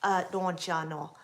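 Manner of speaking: Minnesota accent. Shown as a demonstration. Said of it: "they sound very Canadian".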